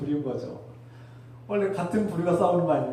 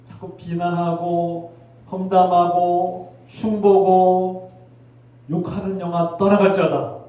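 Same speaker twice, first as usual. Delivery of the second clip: stretched-out rebuke; 5 dB louder, much slower than usual. Real, not acted. Preacher rebukes the spirit.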